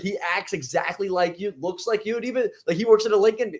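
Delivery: a hint of an eager seventy-year-old; excited old man.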